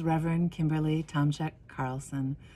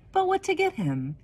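wondering question; 4 dB louder than usual. Acted. Narrator wonders what gift.

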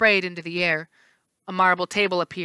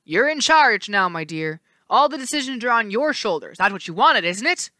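smiling taunt; 3 semitones higher, 3 dB louder than usual. Acted. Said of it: "The le-, right face smiled".

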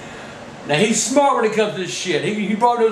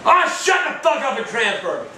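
curt, annoyed order; fed-up snapped demand; angry demand; 2 semitones higher than usual. Real, not acted. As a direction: tell him off sharply. Demands transfer.

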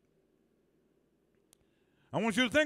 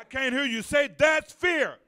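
preacher's shout; 3 semitones higher than usual. Real, not acted. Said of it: "call and response shout".

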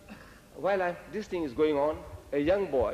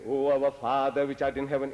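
measured church-style recital; prayer recitation; 3 semitones lower than usual. Retold or imitated. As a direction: recite it solemnly on a level note. Reading out the Lord's Prayer.

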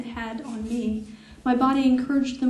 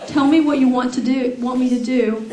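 louder, words pushed out through leftover laughter; laughing through words; 7 dB louder than usual. Real, not acted. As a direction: read on while still cracking up. Reading while still laughing.

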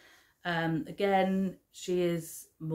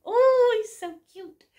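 real adoring coo; 12 dB louder than usual. Real, not acted. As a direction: coo over something adorably cute. Cooing over her polar bear.

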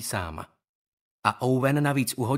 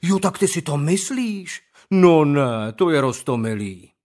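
sneering sarcasm, louder; mocking; 2 semitones higher, 7 dB louder than usual. Owen mocks Skandar's hopes, sneering. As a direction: coo it like he's a baby.

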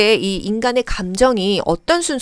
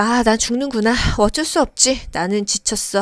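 resigned; 3 dB quieter than usual. Acted. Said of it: "하고 포기하는 거예요".

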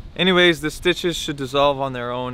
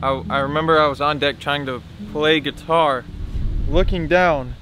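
numb from the dentist. Real, not acted. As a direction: mouth still numb after surgery. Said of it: "you can still kinda tell".

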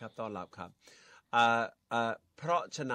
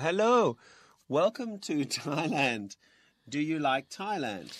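higher-pitched, carefully spaced English greeting; acted friendly greeting; 4 semitones higher, much slower than usual. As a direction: play a learner greeting a foreigner, pitched up. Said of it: "แล้วก็บอกว่า". (แสดงเป็นคนไทยทักฝรั่ง เสียงสูงขึ้น)

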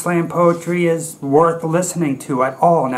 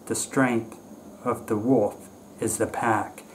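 quiet, lower, measured recital with pauses between phrases; poem recitation; 4 semitones lower, 7 dB quieter than usual. Acted. Fan quoting Kipling as real poetry, quiet recitation.

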